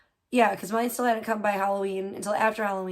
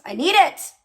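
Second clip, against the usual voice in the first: louder, higher mock-desperate cry; exasperated outburst; 5 semitones higher, 10 dB louder than usual. Real, not acted. Complaining to viewers about her delayed moisturizer, exasperated outburst. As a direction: blurt out the need in half-joking frustration.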